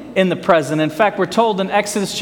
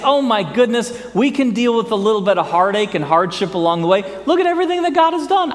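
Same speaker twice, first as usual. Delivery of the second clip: hopeful Israelites; 3 semitones higher, faster than usual. Retold or imitated. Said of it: "we would think that Israel would say".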